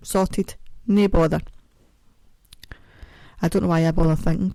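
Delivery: normal talking voice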